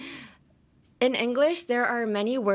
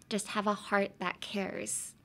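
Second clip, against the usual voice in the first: sincere read; 6 dB quieter than usual. Shown as a demonstration. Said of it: "try out this week's phrase".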